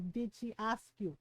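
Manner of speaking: low, soft questioning as a mom; quiet Filipino mom. Retold or imitated. Mom restating her question to her son, low and quiet. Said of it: "in her little Filipino mom way".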